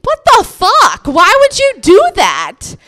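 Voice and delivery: loud, high, exasperated outburst; mock outrage. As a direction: explode at the boyfriend, hammed up. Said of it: "then I would get really mad".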